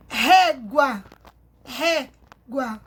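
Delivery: régua with a long, strong first syllable; stress on RÉ. Shown as a demonstration. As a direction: stretch the ré in régua. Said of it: "O acento em cima do E".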